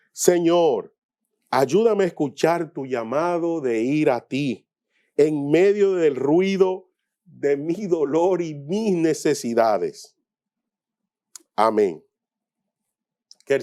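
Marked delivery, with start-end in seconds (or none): 0.1-12.0 measured, emphatic spoken prayer; earnest prayer. Real, not acted. Preacher praying to the Lord for help hearing the call, earnest prayer. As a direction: lead them in a firm plea to God, pausing between phrases.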